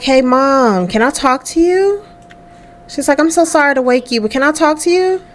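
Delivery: gently ask, a bit anxious; lightly voiced nervous daughter. Jamie wakes her mom to confess, lightly voiced and nervous.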